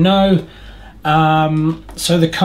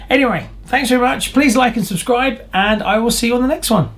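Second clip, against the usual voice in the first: cheery sign-off; 7 semitones higher than usual. Real, not acted. Upbeat video sign-off.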